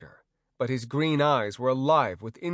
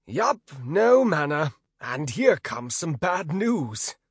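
chuckling; 4 semitones higher, 4 dB louder, slower than usual. Acted. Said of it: "said the trainer with a chuckle".

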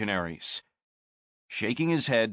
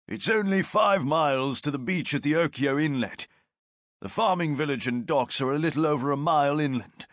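lightly voiced veteran sergeant; a hint of a steady soldier; sergeant's voice; 3 semitones higher than usual. Martius voiced by narrator.

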